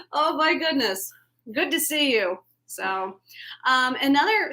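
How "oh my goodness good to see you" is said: delighted greeting. Real, not acted. Co-host hails John Stone from Thailand, delighted. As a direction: greet a faraway pal with loud excitement. Greets a viewer joining live.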